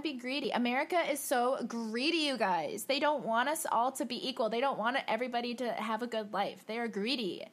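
fired-up rant about greed. Real, not acted. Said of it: "I'm sorry if I was yelling".

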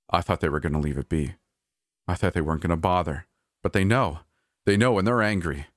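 fast, desperate rush of words; a hurried, desperate manager. Acted. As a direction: spill it out quickly, panicking. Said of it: "My manager's voice sounded almost desperate".

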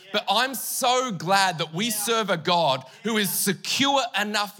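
slow, musical sermon cadence; slow preaching cadence with music behind; preaching over keys. Acted. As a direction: lean into the message over the music.

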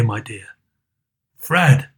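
usual speaking voice

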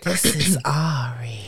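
whispered, slow groggy imitation; sleepy husky good morning. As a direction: mimic her half-asleep croak. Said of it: "That's how you sound".

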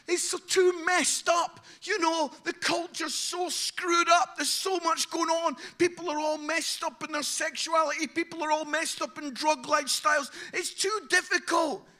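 a put-upon moan about the messy world; complaining church. Pretend. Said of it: "church is like".

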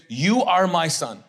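very slow, measured divine declaration; God's voice. Acted. God declaring love for his son, slow solemn voice. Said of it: "He says".

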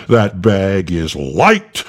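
slow, booming angel rebuke; slow, loud angel voice; thundered. Acted. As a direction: thunder it down slowly. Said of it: "thundered Gabriel".

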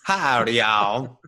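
light Southern greeting; a hint of Texas drawl; mild Southern howdy. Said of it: "a little more Texas".

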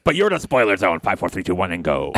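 lightly voiced poor man's Beetlejuice; hammed-up showman, sinking low at the end. The speaker counting down the spoiler zone, put-on character voice. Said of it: "You sound like a poor man's".

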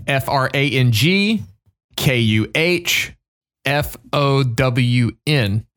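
slow, letter-by-letter phonetic spelling. Shown as a demonstration. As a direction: read out each letter, pausing between groups. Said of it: "phonetic, uh, pronunciation is".

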